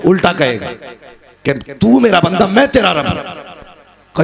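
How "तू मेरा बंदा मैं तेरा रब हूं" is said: overjoyed blurting. Retold or imitated. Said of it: "मगर खुशी में ऐसा भूल गया वो". (ख़ुशी में बौखलाकर "तू मेरा बंदा" ज़ोर से कहना)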